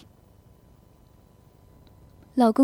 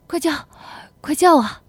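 raised, insistent urging; higher, building command; urgent demand; 6 semitones higher, 5 dB louder than usual. Acted. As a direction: press harder on the repeat. Husband urgently pressing wife.

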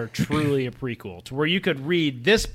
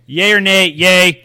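excited; 3 semitones higher, 10 dB louder, much slower than usual. Real, not acted. Loud eager vote.

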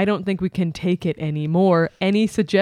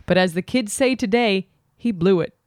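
letter reading. Acted. Reads Dear Abby letter aloud.

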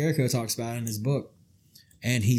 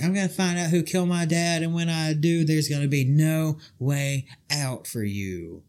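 Stephanie McMahon impression; 4 semitones higher than usual. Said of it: "she's like".

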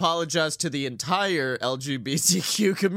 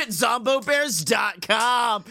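promo shout; 5 semitones higher than usual. Acted. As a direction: hype up the merch plug like a commercial. Announcing merch in promo voice.

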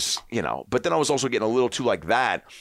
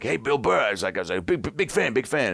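gushing fan; 6 semitones higher than usual. Retold or imitated.

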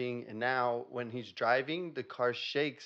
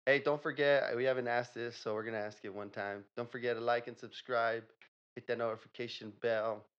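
radio host outro. Acted.

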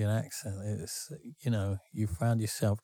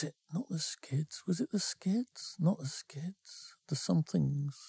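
whispered aside; 5 semitones higher, 5 dB quieter than usual. Real, not acted. Muttering to himself, recalling band.

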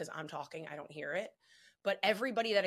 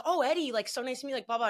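a hint of sweet timid self; 5 semitones higher, 3 dB louder than usual. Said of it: "So I was like".

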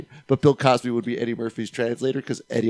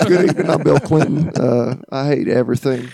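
a hint of Bill Clinton, slowed on the second line; Bill Clinton impression; 4 dB louder than usual. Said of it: "my Bill Clinton's terrible".

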